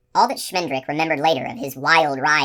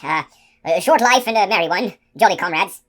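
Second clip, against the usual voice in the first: loud fumbling recital; 4 semitones higher, 6 dB louder than usual. A narrator's reading. Giant fumbling the password.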